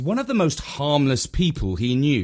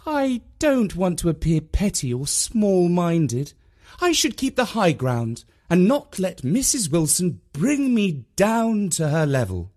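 higher-pitched mum reasoning with herself; high-minded mum; 8 semitones higher than usual. A narrator's reading. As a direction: talk yourself onto the high ground, pitched up. Mum's thought voiced.

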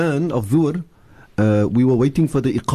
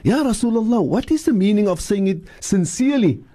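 with feeling; 6 semitones higher than usual. Shown as a demonstration. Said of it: "we say with, with feeling".

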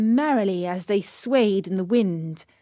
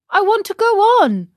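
high, fast, petulant; stubborn insistence; 11 semitones higher, 7 dB louder, faster than usual. Acted. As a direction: whine it out stubbornly.

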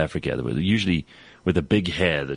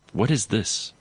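high-pitched mock indignation over a coffee; affronted refusal; 9 semitones higher, slower than usual. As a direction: imitate an appalled, fussy colleague rising in pitch. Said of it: "he looks at the sugar next, and he goes".

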